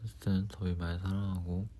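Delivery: talking while chewing gum; words around a piece of gum. Real, not acted. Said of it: "껌을 씹으면서 해서 정말 죄송하지만". (껌 씹으면서 말하기)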